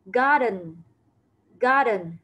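"Garden." said alone in English, clear and even; teacher repeats "Garden." for children; model English word. Shown as a demonstration. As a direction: say "Garden." cleanly for pupils to copy. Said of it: "Khu vườn đọc là garden".

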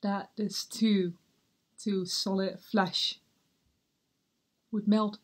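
slow, halting, weary soliloquy; Hamlet. Acted. Hamlet alone after his conversation with Claudius and Gertrude, slow and weary. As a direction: linger on each phrase, pausing heavily. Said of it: "read through one of Hamlet's".

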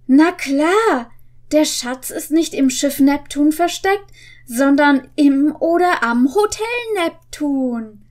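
a touch of eager discovery; mild excited boy detective; excited realization. Acted. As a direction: read it like the penny just dropped. Reads Bob excited.

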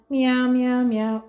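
playful mock meows, a bit loud; cat meow. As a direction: imitate a cat for a little one. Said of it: "The cat says meow".

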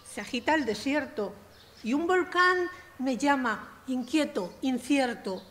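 spoken-word verse in measured, rhythmic phrases; poem delivered with a touch of rap cadence; poetry recital. Acted. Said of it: "tiene un poquito de ritmo de rap".

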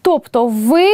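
ordinary delivery

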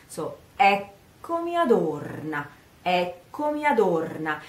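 eccomi adorna, E and O stressed. Shown as a demonstration. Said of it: "First stress is on the first E".

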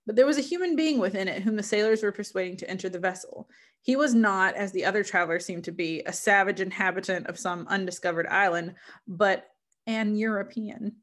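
measured, literary read-aloud; story narration. Acted. Reader sharing Frankenstein with listeners, story narration. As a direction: read it as an explorer's letter, evenly phrased.

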